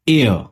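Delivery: एयर as "ay" gliding into "uh"; combined sound. Shown as a demonstration. Teacher showing two sounds combined, एयर as one glide. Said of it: "ये combine होके".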